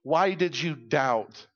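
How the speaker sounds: gentle rebuke. Retold or imitated. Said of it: "because he says".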